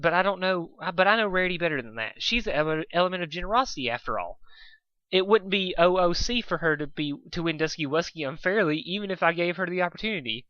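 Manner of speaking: lightly voiced cheerful filly; bubbly pony voice. Pinky voice.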